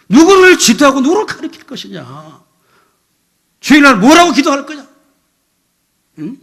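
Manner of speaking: loud scolding building to a high shout; outraged, mounting tirade; angry rebuke. Retold or imitated. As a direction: re-enact dressing down a deacon at full volume. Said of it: "좀 열받아갖고".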